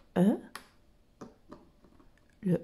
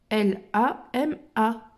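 slow spelling; slower than usual. Shown as a demonstration. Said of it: "Alors, le L".

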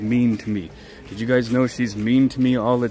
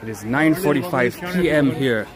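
travel show host. Acted. Streamer mock-narrating Thailand to viewers like a travel host. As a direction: narrate like a cheesy travel presenter.

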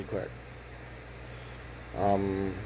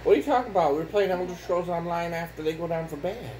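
playful protest; 6 semitones higher than usual. Real, not acted.

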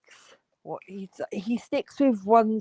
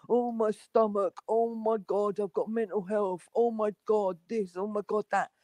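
softer, understated mock complaining; mock self-pity; 7 dB quieter than usual. Mimicking the streamer's act for viewers, mildly mock-suffering. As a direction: lightly imitate someone moaning about ailments. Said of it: "He does a real".

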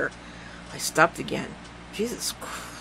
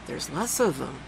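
whispered; 6 dB quieter than usual. Acted. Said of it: "I whispered".

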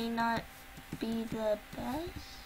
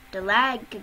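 frustrated yell; 8 dB louder, slower than usual. Real, not acted. Frustrated by game lag.

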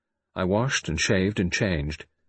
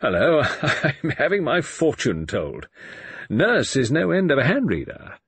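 higher-pitched, slightly embarrassed chuckle into the words; sheepish laugh; 7 semitones higher, 4 dB louder than usual. A narrator's reading. Man caught having his fortune told, laughing sheepishly. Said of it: "laughed a little sheepishly".

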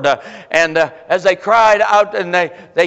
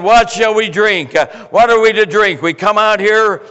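higher, louder whining Israelites, mildly acted; complaining people; 3 semitones higher, 3 dB louder than usual. Preacher voicing thirsty Israelites complaining, mild mock whine. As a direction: voice the grumbling crowd pleading for water. Grumbling Israelites voiced in sermon.

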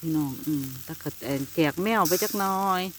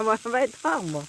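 imitating grandpa; 5 semitones higher than usual. Vlogger mimics grandpa's remark about the fish, higher voice. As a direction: voice grandpa's words, raised up. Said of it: "พ่อใหญ่ว่า".

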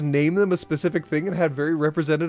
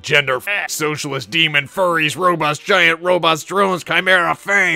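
excited; 4 semitones higher, 8 dB louder than usual. Real, not acted. Building excited list.

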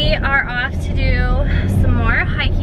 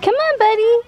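encouraging call; 11 semitones higher, 4 dB louder than usual. Real, not acted. Urging the dog on the trail.

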